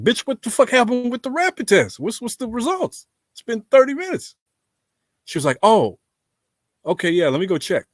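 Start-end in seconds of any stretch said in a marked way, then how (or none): 0.0-4.3 high, loud, exasperated mock yell at the nurse; retold angry yell. Patient yelling at the nurse who hid his results, high and loud retold outrage. 5.6-7.9 mock flustered nurse. Nurse voiced in retold story.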